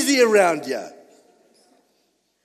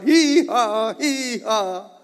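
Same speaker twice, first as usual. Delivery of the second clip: donkey bray; much slower than usual. Shown as a demonstration. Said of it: "That's all a donkey does".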